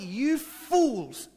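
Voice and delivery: loud rebuke, a sharp shout of condemnation. Retold or imitated. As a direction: shout it as Jesus rebuking the Pharisees. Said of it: "It's like he's legitimately shouting".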